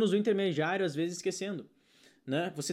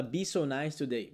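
mock learner; 4 semitones lower, slower than usual. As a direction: mumble the student's error. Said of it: "vai falar".

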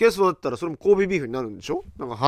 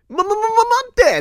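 high, loud stammered cry to stop; frantic to save the meat; panicked stop; 7 dB louder than usual. Real, not acted. Watching the chef pour sauce on the steak, a high panicked stammering cry.

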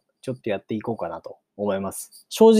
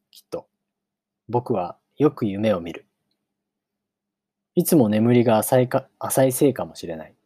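measured audiobook reading with long pauses; story narration. A narrator's reading. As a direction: read it out as a storybook opening. Narrates the novel. (間を取った物語の朗読)

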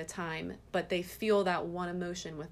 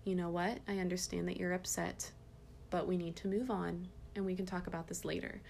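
gentle and calm; 4 dB quieter than usual. Shown as a demonstration. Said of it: "But say it like that".

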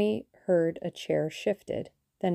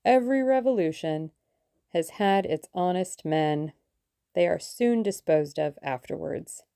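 sinister relish; 3 dB louder than usual. Acted. Russian savouring his phrase to fellow plotters, mild sinister relish. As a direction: let the words please you, with a hint of menace. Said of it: "There was a sinister note in his voice".

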